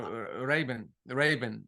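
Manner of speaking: Ray-Ban repeated as "RAY-bun"; Middle Eastern pronunciation. Shown as a demonstration. Demonstrating how he learned it, Middle Eastern pronunciation. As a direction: say Ray-Ban with a short, weak "bun" ending. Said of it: "Yeah, that's how I".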